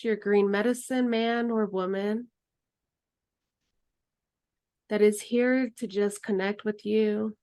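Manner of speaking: calm, unhurried meditation guide voice; guided meditation. Acted. Guide leading students through closing meditation, calm and unhurried. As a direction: lead the group gently into stillness. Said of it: "end just with the closing meditation".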